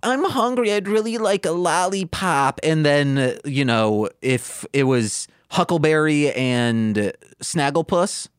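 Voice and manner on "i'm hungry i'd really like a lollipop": put-on kid asking. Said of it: "the kid after being happy is like".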